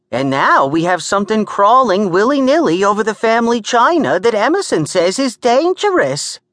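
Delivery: high, loud, agitated New York tirade; ranting New York woman. Acted. Gert complaining about the creature in her china, agitated New York rant. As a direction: rant without stopping, voice way up high. Narrator voices Gert's rant.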